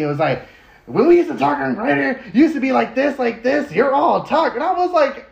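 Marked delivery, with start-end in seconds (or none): 0.9-4.5 retold annoyed DJ. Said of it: "gets mad and gets angry with me".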